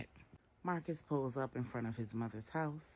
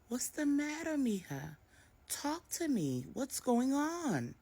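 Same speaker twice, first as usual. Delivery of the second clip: higher, pleading motherly voice; worried mother; 12 semitones higher than usual. A narrator's reading. Maria begs her daughter Jessica to talk, worried. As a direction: coax her daughter to open up.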